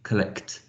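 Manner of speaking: collect with both k and t audible at the end; collect, crisp k-t ending; distinct end phonemes. Shown as a demonstration. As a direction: say collect as an example, releasing the final consonants. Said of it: "You've got two distinct phonemes".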